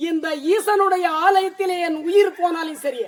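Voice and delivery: put-on devoted boy's vow. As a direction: vow it firmly as the devoted son. Boy vows devotion to his father. (உறுதியான பக்திச் சபதம்)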